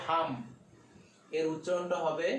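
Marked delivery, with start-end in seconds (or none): 0.1-0.3 হাম as one closed syllable, ending on m; HAM pronunciation demo. Shown as a demonstration. Teacher shows learners the jazm joining ha and mim, pronunciation demo. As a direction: say হাম, closing the lips on the final m.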